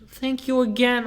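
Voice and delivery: high-pitched imitated old lady; nice old lady. Old lady looking back to thank helper, high imitated voice. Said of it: "And she looks back. She goes".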